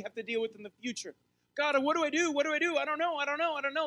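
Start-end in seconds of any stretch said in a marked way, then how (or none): 1.6-3.9 high-pitched, frantic pleading to God; a mock panicky cry of not knowing what to do; panicked prayer. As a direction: act out someone at a loss, begging.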